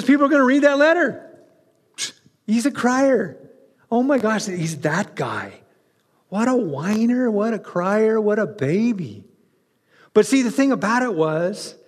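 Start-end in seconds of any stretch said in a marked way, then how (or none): 2.5-9.2 sneering mock gossip voice. Preacher imitating readers mocking Timothy as a crier, sneering. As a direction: scoff at the crier. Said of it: "people are gonna go".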